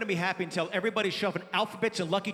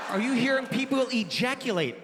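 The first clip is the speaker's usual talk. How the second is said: higher, mildly appalled question; incredulous questioning; 4 semitones higher, 3 dB louder than usual. Retold or imitated. Dad grills son on where he heard it, mildly aghast.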